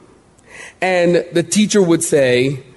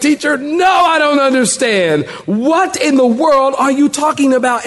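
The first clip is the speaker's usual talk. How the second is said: confused student; 7 semitones higher than usual. Pretend.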